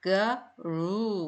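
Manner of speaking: 거루 drawn out, ending in a long oo; teacher showing the double o sound; long oo in roo. Shown as a demonstration. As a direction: stretch the oo at the end of 거루. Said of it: "오가 두 개니까 우".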